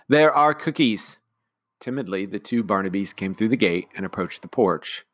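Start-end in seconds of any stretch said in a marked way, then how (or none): 0.1-1.2 slow, raised call. Acted. Nanny calling the twins across the fence, slow and raised. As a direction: coax them over with cookies. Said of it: "she called to the other side".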